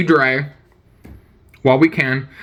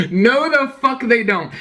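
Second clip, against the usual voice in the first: higher, drawn-out flat contradiction; emphatic disbelief; 5 semitones higher, slower than usual. Real, not acted. Streamer rejecting the video's global warming claim, emphatic disbelief. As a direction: stretch out the scornful denial.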